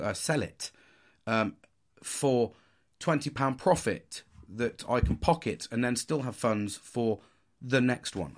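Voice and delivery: put-on lightly posh young entrepreneur; a touch of posh, measured pacing. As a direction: explain it precisely in a mild posh accent. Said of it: "we'll put a posh voice on".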